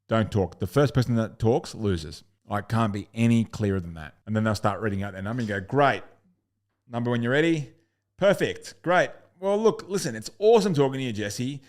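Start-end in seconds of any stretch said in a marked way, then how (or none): 5.6-11.6 bright, higher, louder sign-off; upbeat salesperson. Shown as a demonstration. Salesperson thanking the new client Jesse, high and excited. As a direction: sound thrilled for the client.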